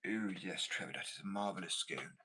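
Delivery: lightly put-on stereotypical British accent; a hint of caricatured British tea-time English; mock British accent. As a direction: parody how outsiders think British people talk. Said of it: "Is that what you think we sound like?".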